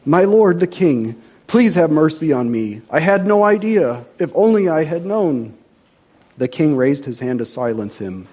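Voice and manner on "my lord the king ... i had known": higher, pleading for mercy; imploring. Acted. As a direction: beg the king desperately.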